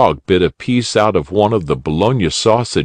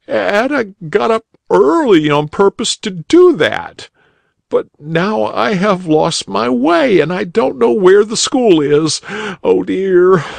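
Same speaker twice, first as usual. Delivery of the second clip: put-on tearful boy; 13 semitones higher than usual. A narrator's reading. Crying boy answering the rabbit, high young voice. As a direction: play the upset schoolboy, pitched up. Boy has lost his way.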